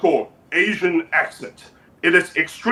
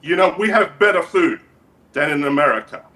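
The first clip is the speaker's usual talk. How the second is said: put-on measured, accented dictator voice; North Korean leader character. North Korean leader invites the guest over, measured dictator voice. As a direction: play a dictator making a formal invitation.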